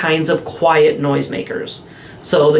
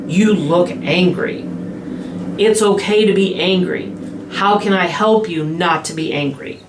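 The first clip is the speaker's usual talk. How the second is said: calm labeling demo. Shown as a demonstration. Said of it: "make sure that you're doing exactly the same look".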